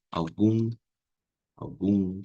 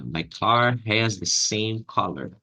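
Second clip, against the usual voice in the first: stretched, careful sentence; slowed teaching model; slow demo; much slower than usual. Shown as a demonstration. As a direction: dictate it slowly. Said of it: "Ah, my".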